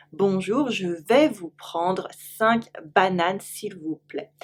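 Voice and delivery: slow it down so learners can copy. Shown as a demonstration. Teacher slowly repeating the banana order.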